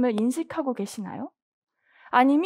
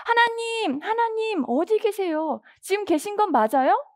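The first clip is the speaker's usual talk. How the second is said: higher-pitched, urgent appeal to God; anxious pleading; 4 semitones higher than usual. Acted. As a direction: act out someone desperately calling for God. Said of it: "애타게 하나님을 찾고".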